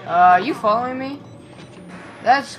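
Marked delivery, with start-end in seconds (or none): none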